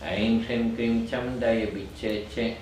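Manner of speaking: brisker, even chant on a steady note. Shown as a demonstration. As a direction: run the mantra's syllables together. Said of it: "Then I go more quickly".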